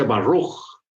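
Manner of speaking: slow "Baruch" in an imitated American accent; acento gringo. Shown as a demonstration. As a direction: imitate an American saying "Baruch", drawn out with an English r. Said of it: "Si usted oye a un gringo". (acento americano imitado)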